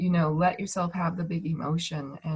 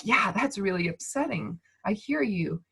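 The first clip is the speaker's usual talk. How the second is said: calm acknowledging. Shown as a demonstration.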